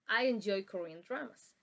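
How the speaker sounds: "I enjoy Korean dramas." said as a statement, pitch falling at the end; falling intonation. Shown as a demonstration. Teacher's example of falling intonation for the class. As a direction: let the voice fall on dramas. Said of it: "falling intonation".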